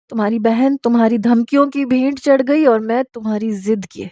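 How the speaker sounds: a wife shaking her husband, half-mad with rage and grief; frenzied outburst. Acted. Wife confronting her husband in a frenzy, tearful anger. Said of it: "مجھ پر تو جیسے دیوانگی چھا گئی".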